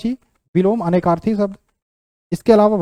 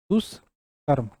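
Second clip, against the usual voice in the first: slow dictation; 5 semitones lower, 7 dB quieter, much slower than usual. Shown as a demonstration. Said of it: "ये सही तरीका है".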